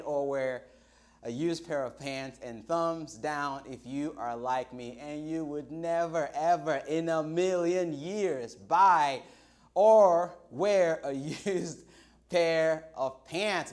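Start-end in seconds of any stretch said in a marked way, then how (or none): 2.4-13.7 slow, louder, laughing disgust; never ever in a million years, said with a laugh; disgusted emphasis. Real, not acted. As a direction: spell out how gross it is, slowly and louder. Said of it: "because that is just nasty".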